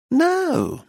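very high correcting; high sharp no. A narrator's reading. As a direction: cut him off. Missus Lacy correcting.

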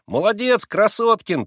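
put-on high, loud boyish cheer; ringing little voice. A narrator's reading. Third boy cheering his friend, high and ringing. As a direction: ring out the praise. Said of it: "прозвенел третий голосок".

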